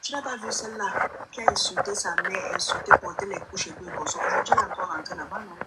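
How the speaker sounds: rising to a near-shout in disbelief; heated outburst. Real, not acted. Friend ranting to the host about the lioness, loudly indignant.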